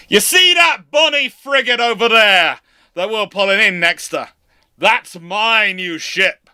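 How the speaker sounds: rally the lads like a jolly officer handing out grog; rousing first lieutenant. Acted. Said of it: "and then goes".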